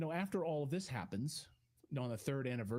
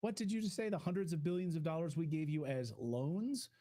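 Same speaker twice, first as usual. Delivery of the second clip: higher, incredulous questions building; mock disbelief; 4 semitones higher than usual. Real, not acted. Host reacting to Zelensky calling loans grants, incredulous. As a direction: play it like you can't believe your ears.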